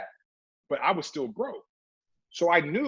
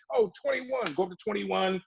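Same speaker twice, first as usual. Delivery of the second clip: guard's answer; 5 semitones higher, 3 dB quieter than usual. Retold or imitated. Guard telling the floor.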